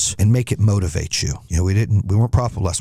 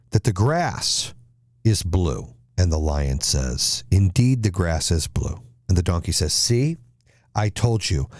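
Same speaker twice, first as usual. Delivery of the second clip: measured storyteller with deliberate pauses; fable storytelling; 3 semitones lower than usual. Acted. Motivational speaker tells a donkey and tiger fable, measured storytelling. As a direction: tell it like a fable, drawing out the key phrases.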